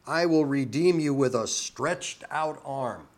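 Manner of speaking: firm, drawn weight on "stretched out arm"; emphatic. Shown as a demonstration. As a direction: declare it, landing hard on "stretched out arm". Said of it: "That's way more emphatic than".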